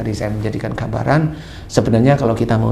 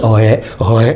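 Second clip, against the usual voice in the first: burp; 3 semitones lower than usual. Retold or imitated. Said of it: "keluar angin itu".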